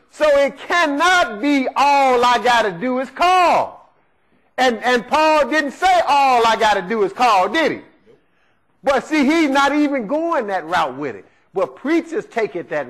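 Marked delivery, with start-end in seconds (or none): 0.1-6.8 forceful preaching. Real, not acted. Preacher hammering his point.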